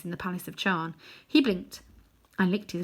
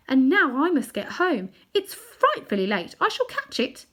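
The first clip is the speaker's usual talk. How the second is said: put-on anxious girl; 7 semitones higher, 4 dB louder than usual. Polly worried about being late.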